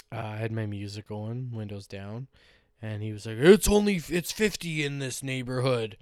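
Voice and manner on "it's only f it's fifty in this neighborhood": a lightly mocked scolding neighbor, higher and louder at the start; mocking the neighbor. Retelling how the neighbor scolded him, mild mock scold. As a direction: poke fun at the fussy neighbor's lecture.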